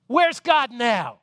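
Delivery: Paul panicking in the dungeon, pleading; high, fretful cries of Silas' name; despairing Paul. Acted. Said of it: "And Paul looks over at Silas and says".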